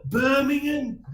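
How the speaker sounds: Birmingham drawn out slowly as "Bermingun"; slow Brummie Birmingham. Shown as a demonstration. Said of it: "It's like Bir".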